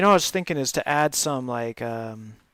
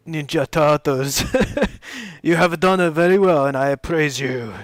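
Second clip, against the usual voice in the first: put-on Japanese accent; 4 dB louder than usual. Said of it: "it's kind of stereotypical Japanese accent".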